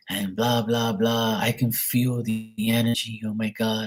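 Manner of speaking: lightly voiced psychic, words drawn out slowly; hint of a mystic reciting a scripted pitch; mock psychic pitch. Imitates psychic's unsolicited pitch message.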